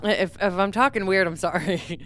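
numb mouth making speech a little off; talking after novocaine. Real, not acted. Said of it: "half her face is still kind of numb".

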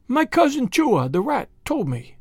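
high, slow hesitant little voice; timid muskrat. A narrator's reading. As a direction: start a nervous confidence, then falter. Timid muskrat begins a secret.

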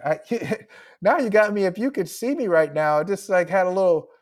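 real emotion breaking through a laugh; fighting back a catch in the throat; choked up. Real, not acted. Author tearing up while answering the podcast host, choked up. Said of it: "why am I getting emotional now".

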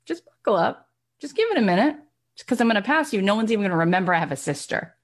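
lightly voiced Serena. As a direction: tease her sister, rising high. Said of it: "Serena looking at her sister and saying".

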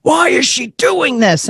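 high-pitched indignant protest, lightly imitated; mock outrage. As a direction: mimic an upset crowd demanding answers. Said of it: "they were mad at Diane Sawyer".

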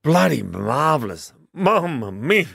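a slow, hammed-up Italian accent. Co-host asked for it, so a slow mock Italian accent. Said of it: "How's your Italian accent?".

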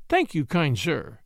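lightly, a bit slow. Acted. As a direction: brush it off lightly. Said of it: "she said lightly".

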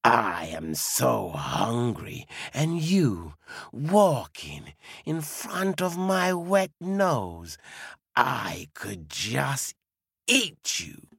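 low, slow menacing wolf voice; hungry wolf. Acted. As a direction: growl at the old lady like a hungry beast. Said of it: "And the wolf says".

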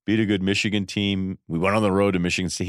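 a touch of low-key, mumbling coach modesty; mild mock of a coach playing it down; passive coach talk. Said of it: "a real passive".

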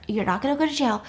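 quick, matter-of-fact dismissal; acted hurried reassurance; brisk reassurance. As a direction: rattle it off to settle him. Brisk reassurance, later said slowly.

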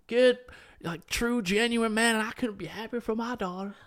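high, hearty American dad approving; father's voice. Retold or imitated. Girlfriend's father approving the proposal request, high and hearty. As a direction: gush like a proud dad. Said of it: "and he goes".

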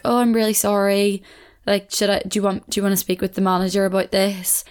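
mildly deferential, offering to help; apologetic, submissive. Acted. Waitress placating an unhappy customer, mildly apologetic and submissive. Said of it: "apologetic and kind of submissive".

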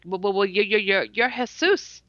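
halting, tripping over the words; nervous stutter, mildly voiced. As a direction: stammer out each repeated word. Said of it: "and I'm stuttering".

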